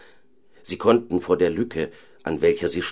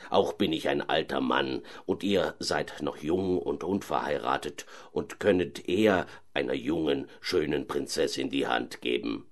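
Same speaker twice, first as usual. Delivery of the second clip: put-on reluctant old vizier; 4 semitones lower, 4 dB quieter than usual. Old vizier declines to marry the owl, lower grumbling voice. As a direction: refuse it gently like a tired old servant.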